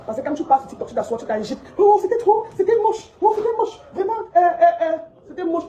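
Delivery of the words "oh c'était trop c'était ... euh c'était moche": mocking disgust. Mocking someone's TikTok.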